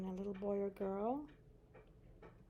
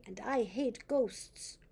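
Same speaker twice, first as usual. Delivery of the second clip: put-on sulky boy; slower than usual. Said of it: "said the boy".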